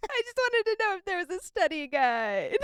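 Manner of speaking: 학생을 흉내 낸 가늘고 높은 목소리로 소심하게; 살짝 목소리를 올려 머뭇거리는 학생처럼; timid student, high-pitched. Retold or imitated. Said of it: "student voice continues".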